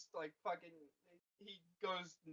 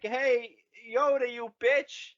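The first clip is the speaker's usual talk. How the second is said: mock yell; 6 semitones higher, 6 dB louder than usual. Luke yelling at Yoda, retold.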